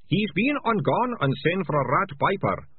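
high, gleeful thug voice; gloating thug. A narrator's reading. Ratcatcher Two gloating to Malicia, high voice. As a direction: gloat over the news.

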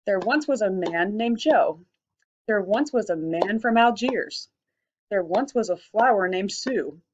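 slow, beat-marked limerick openings; slow sing-song opening lines; rhythmic reading. Shown as a demonstration. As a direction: read each opening slowly on the beat. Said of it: "come up with fun lines to make your limerick".

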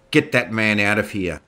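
loud commanding bark; booming order. Acted. General ordering the heckler removed, booming. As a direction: boom it across the hall. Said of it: "General Gordon boomed".

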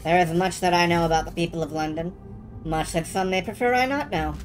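low, solemn spirit voice; ghostly lamplighter. Acted.

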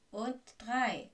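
loud final beat of a countdown; called-out count. A narrator's reading. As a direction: call out the last number with force. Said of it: "rief Lockhart".

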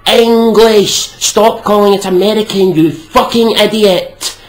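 slow, loud and high, hammering each phrase; angry rant. Real, not acted. Ranting at someone who calls English American, loud and angry. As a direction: tear into him.

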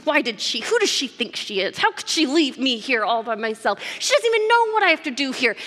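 mock indignant muttering; muttering under her breath. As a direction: grumble like a put-upon sister. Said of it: "what I see Martha doing under her breath".

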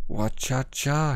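slow, drawn-out kung fu cries; hammed-up kung fu shout; Bruce Lee noises. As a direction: imitate a martial arts yell. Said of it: "Bruce Lee noises are right".

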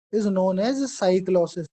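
very slow, "cyclosis" alone, without "cell"; corrected dictation. Shown as a demonstration. Teacher correcting a dictated slip for students, slow and clear. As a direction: redictate "is known as cyclosis" slowly and clearly.

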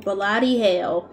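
slow, drawn-out Aussie curse; deliberate Australian-accented oath. Shown as a demonstration. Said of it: "sounds more like the Australian accent".

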